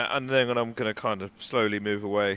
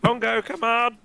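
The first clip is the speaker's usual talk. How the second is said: loud, high urgent shout; calling out; 12 semitones higher, 9 dB louder than usual. Acted. Player calls dawdling Bongo to come on, urgent shout. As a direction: holler to hurry someone along.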